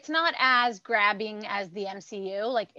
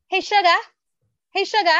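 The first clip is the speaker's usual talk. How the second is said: high, loud Southern belle "Hey, sugar"; imitating a Southern accent; 9 semitones higher, 4 dB louder, faster than usual. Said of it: "calls me sugar with, like, a Southern accent".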